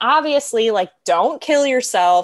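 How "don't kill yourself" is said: mock-sarcastic tone, higher pitch. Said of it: "being very, like, sarcastic".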